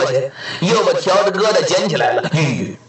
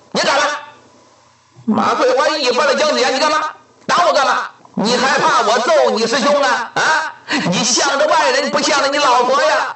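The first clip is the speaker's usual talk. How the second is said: mock angry scolding; 4 semitones higher than usual.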